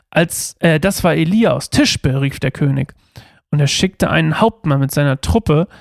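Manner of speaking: measured, steady Bible reading aloud; scripture reading. Acted. Youth pastor reading Second Kings to listeners, measured reading. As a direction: read the verses out clearly to the group.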